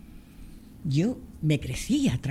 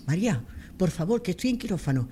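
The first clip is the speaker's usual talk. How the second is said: hurried, raised pitch, pleading doctor; urgent doctor on phone; 4 semitones higher than usual. Retold or imitated. Doctor calling from surgery, urgently asking for the X-ray. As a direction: rush the words like a surgeon mid-operation.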